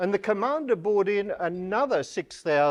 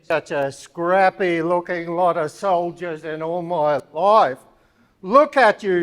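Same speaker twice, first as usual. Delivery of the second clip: scolding drill officer; 5 dB louder than usual. Acted. Drill officer inspecting soldiers.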